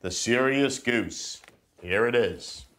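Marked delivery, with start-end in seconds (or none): 0.0-1.4 put-on slow storybook read to a child; reading to children. Dad reading the book to his kids. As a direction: read the title like a bedtime story.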